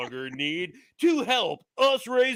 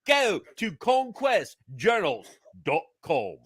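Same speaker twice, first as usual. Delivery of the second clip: put-on light British accent on a sponsor read. Producer reads the sponsor spot in a British accent. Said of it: "I like that you went with the British voice".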